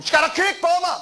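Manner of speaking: high, challenging mock-aggressive retort; picking a fight. Brother confronting people who look at him, mock-aggressive challenge. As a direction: snap it out like a guy looking for trouble. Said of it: "banker han folk, der kigger på ham".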